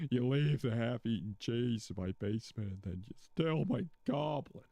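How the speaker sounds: indignant homeowner scolding Walter, lightly voiced; mock scolding homeowner. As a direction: tell off the floor-root culprit in a put-on scolding voice. Scolding Peter in character.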